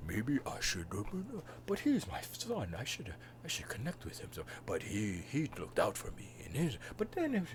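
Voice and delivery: hushed, wavering mock deliberation; inner monologue. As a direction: think it through softly, pitch swinging. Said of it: "there'll be an inner monologue".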